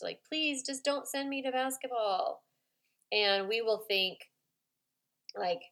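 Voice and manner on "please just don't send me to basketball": put-on pleading child. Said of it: "calling out for a rescue attempt".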